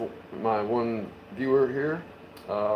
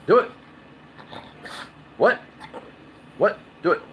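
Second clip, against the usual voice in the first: loud command; 9 semitones higher, 8 dB louder than usual. Real, not acted. Ordering the dog to speak.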